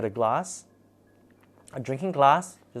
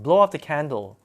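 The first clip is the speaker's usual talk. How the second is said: retold spirit command; 4 semitones higher, 7 dB louder than usual.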